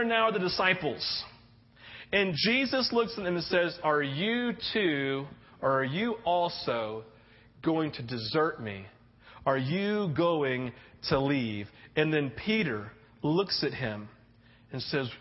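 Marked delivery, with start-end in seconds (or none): 3.8-11.7 lower, slow, tender question; gentle sad question. Acted. Jesus asks disciples gently.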